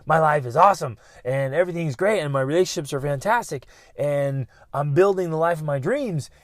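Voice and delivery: upbeat, confident declaration; positive affirmation. Acted. Telling oneself life is awesome, upbeat and sure. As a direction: declare it with conviction. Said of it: "when we should be saying".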